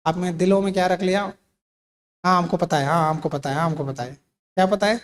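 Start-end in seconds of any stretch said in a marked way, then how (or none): 2.2-4.1 dismissive mock. Mocking know-it-all listeners.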